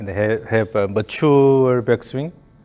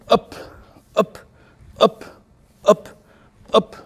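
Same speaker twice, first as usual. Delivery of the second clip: higher, brisk up cues; rhythmic coaching calls; 8 semitones higher than usual. Shown as a demonstration. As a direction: snap out each up. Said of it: "too slow".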